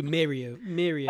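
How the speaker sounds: "Mario" with a British first vowel, like "Mary-o"; imitated accent. Dad copies how Layla calls Mario, British vowel. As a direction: say "Mario" as "MARE-ee-o". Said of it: "I like how she calls you".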